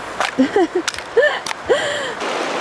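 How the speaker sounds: squealing laugh from the cold; gasping giggle at icy water; shocked high laugh. Real, not acted. Getting into icy river.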